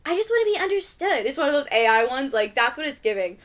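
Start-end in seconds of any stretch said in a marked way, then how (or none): 0.1-1.2 higher, wistful cartoon fairy voice; mock misunderstood fairy. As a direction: play the misunderstood villain, lightly. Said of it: "she'd be like".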